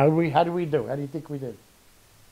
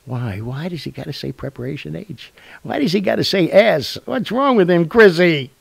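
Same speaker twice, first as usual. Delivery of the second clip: mock complaining listener; 5 semitones higher than usual. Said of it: "who's saying".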